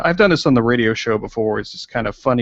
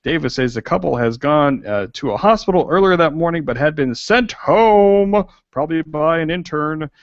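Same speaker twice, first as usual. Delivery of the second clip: half-serious news anchor read; newsreader voice; 4 semitones higher than usual. Pretend. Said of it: "I will get my newsreader voice out".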